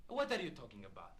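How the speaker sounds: ordinary talk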